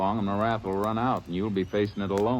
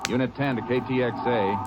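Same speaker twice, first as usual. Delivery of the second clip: radio call; 4 semitones higher than usual. Acted. Ranger radioing headquarters, calling into the mic. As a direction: hail headquarters over the radio.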